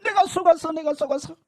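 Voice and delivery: loud, high anguished shouting; woman in hell crying out she was deceived; screaming curses. Retold or imitated. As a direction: scream out regret in torment. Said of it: "막 소리를 지르니까요".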